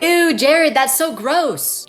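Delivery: put-on disgusted girls. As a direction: drag out the disgust, mocking. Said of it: "all the girls in the group were like".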